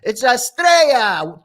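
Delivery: Estrella said slowly as es-TRAY-ya, the double L as a Y; proper Estrella. Shown as a demonstration. Teaching the song's fans, saying Estrella slowly with a Y sound. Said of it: "not the way you say that".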